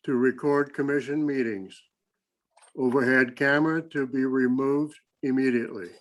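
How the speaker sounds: deliberate, measured reading of a motion; slow reading. Real, not acted. Commissioner reading a motion for the record, slowly. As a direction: read out slowly with pauses between phrases. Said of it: "I'll read it slow".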